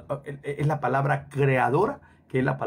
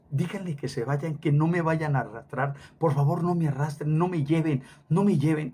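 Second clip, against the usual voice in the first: urgent pleas, slightly raised; retold loud pleading; 2 semitones higher than usual. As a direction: imitate a dying woman begging, mildly. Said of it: "decía en voz alta". (súplica angustiada, imitada)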